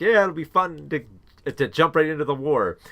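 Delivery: lightly imitated eager recruit; mock giddy excitement. Giddy soldiers who lied about their age, mock excitement. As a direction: pretend to be excited about enlisting. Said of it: "They're all giddy and excited".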